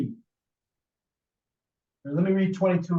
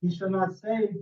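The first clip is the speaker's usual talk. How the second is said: scripture reading; 5 dB louder than usual. Acted. Reads scripture aloud to group.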